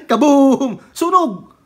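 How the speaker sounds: loud, high excited Kaboom and Sunog; excited shout. Acted. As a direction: shout it like a blast of fire. Retelling fire from heaven. (masiglang sigaw, malakas at mataas)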